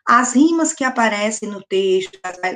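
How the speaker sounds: ordinary delivery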